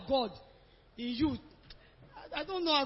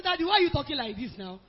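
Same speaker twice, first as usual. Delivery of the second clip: mild mock shout, a little louder; retold shouting; 3 semitones higher, 5 dB louder than usual. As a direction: recount your raised voice at dad. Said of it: "I started shouting at him".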